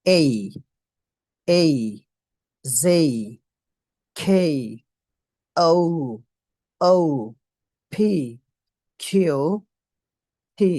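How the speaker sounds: letters like এই, খেই, ফি sounded out singly with long pauses; special letter pronunciation. Shown as a demonstration. Teacher has students practise along, deliberate letter-by-letter drill. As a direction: model এই, খেই, ফি slowly and firmly, one at a time. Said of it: "একটু different হবে".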